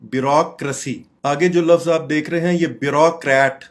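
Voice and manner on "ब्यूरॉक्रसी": "ब्यूरोक्रेसी" as bi-ROCK-ruh-see; correct pronunciation. Shown as a demonstration. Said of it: "correct pronunciation".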